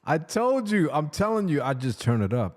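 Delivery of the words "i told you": lightly put-on late-night radio voice; sexy DJ voice. To his wife, a mild put-on DJ voice. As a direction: turn it up like a smooth DJ. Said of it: "I told you I had the voice".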